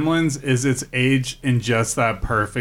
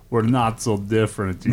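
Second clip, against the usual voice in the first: put-on Russian accent; 3 semitones lower than usual. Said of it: "I did a Russian accent".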